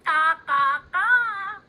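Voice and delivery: loud, proud cawing; proud crow caw. Acted. Crowley answers Missus Honeychurch, loud proud caws. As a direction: caw it out, pleased with himself. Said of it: "Crowley said proudly".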